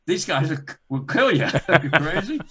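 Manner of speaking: high, loud exasperated telling-off; retold scolding. Boss warning his accountant about dangerous men, retold exasperated scolding.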